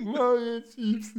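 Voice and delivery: very high and drawn out, slow; whiny kid voice. Acted. Acting out himself chasing the thief.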